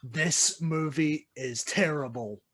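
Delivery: slow, measured, flat verdict on the film. Retold or imitated. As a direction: lay it down slowly like a final judgement. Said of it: "the part of me that just is a lover of cinema that says".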